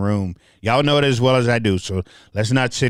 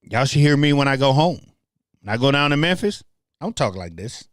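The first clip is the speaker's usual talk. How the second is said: lightly leaning into a Memphis country accent; 3 semitones higher, faster than usual. Shown as a demonstration. Telling how home sounds, Memphis country accent. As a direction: let the Memphis country twang come out. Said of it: "That's when I have my country accent".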